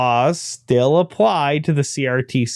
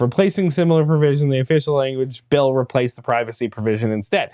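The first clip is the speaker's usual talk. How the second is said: rushed reread; 3 semitones lower, faster than usual. Shown as a demonstration. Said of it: "I don't even know where I left off".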